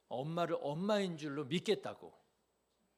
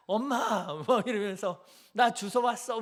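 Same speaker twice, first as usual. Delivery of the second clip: mock tearful child; 4 semitones higher, 5 dB louder than usual. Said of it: "눈물을 뚝뚝 흘리면서".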